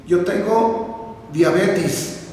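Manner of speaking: "diabetes" said slowly as "diabetis"; E changed to I. Retold or imitated. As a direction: draw it out, "diabetes" ending in -tis. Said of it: "le cambiaron la E por la I".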